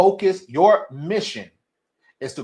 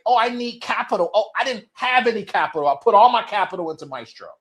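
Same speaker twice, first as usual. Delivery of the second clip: higher, a mock whine of lame excuses; mocking whiny excuse; 5 semitones higher than usual. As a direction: parody a founder making excuses.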